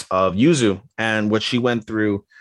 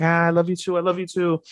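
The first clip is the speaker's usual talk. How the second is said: high-pitched lovestruck answer; imitated gushing reply; 8 semitones higher than usual. Girl answering her beloved at reunion, high gushing imitation. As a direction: echo the declaration in a mock emotional squeal.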